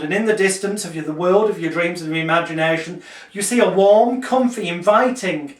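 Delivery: calm, measured hypnotist voice; hypnotic script. Shown as a demonstration. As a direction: read the script gently to a client. Demonstrates hypnotic script to clients.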